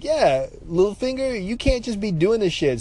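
high-pitched mock scolding; incredulous high-voiced reprimand, retold; retold telling-off.

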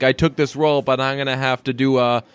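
imitating an actress's forced Boston accent; bad Boston accent. Mocking an actress in a TV scene, bad Boston accent. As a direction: put on a clumsy Boston accent, stretching the last words. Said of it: "that one scene when she's like".

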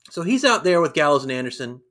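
usual speaking voice

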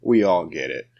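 slow, blunt comeback; blunt retort. Retold or imitated. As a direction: put them in their place slowly. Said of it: "I'm like".

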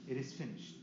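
soft low mournful reading; hushed sorrowful Gospel reading; sad reading. Shown as a demonstration. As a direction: read it like the grief of Good Friday. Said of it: "read this in a very sad way".

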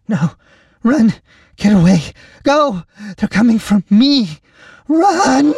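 very high, loud frantic warning; panicked cries. A narrator's reading. Lacey warning the captain they're coming, panicked squeals. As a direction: scream for him to run. Helpless woman begs rescuer to flee.

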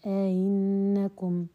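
teacher sounding out the eased hamza; eased second hamza. Shown as a demonstration. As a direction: stretch أئنكم and soften its kasra hamza. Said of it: "بالكسر".

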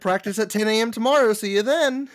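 high, loud bossy coach voice; playful mock coach orders. Continues the mock coach bit.

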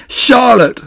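high, loud wail of grief; anguished moan. A narrator's reading. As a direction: moan it out in despair. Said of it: "he moaned".

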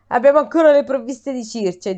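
a hint of an Italian politician's press-conference voice; Giuseppe Conte impression. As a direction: lightly imitate a politician at a press briefing. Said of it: "mi è uscito un po' come Giuseppe Conte".

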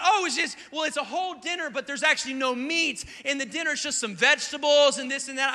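lightly voiced wife. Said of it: "She said".

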